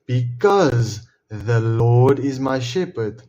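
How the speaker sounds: each word drawn out slowly and deliberately; slow quoted answer. Shown as a demonstration. Answering his own question with the verse, slow and emphatic.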